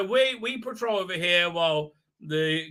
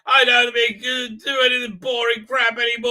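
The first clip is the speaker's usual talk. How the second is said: high, loud whoop of freedom; gleeful kid cheer; 6 semitones higher, 7 dB louder than usual. Retold or imitated. Baby creature cheering he can finally be naughty, shouting. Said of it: "He's like".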